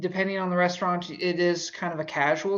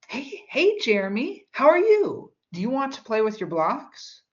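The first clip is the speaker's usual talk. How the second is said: much higher, over the top, sing-song; high kid-talk voice; 6 semitones higher than usual. Shown as a demonstration. Babysitter meeting a six-year-old, high and bubbly. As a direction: pitch it way up to charm a child. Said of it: "your voice goes up in tone".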